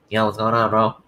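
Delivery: light bro voice imitation; mock a congested bro; imitating stuffy bro. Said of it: "you sound like".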